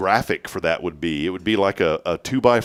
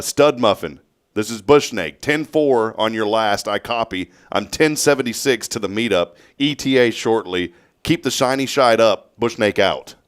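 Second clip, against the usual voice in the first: CB talk. Retold or imitated. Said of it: "respond in C B talk".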